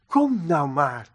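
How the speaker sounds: low, soft, reassuring invitation; gentle coaxing. Acted. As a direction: coax tenderly, dropping the voice. God reassures guilty Cain. (zacht en laag, liefdevol aansporend)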